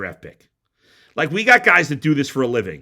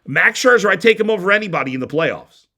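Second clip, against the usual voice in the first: hammed-up big claim, louder and higher on Scherzer; mock bold statement; 5 semitones higher, 4 dB louder than usual. Host mocking a rival's big baseball take. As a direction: announce it like a daring scoop, lightly overdone. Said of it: "as if he were making a bold statement".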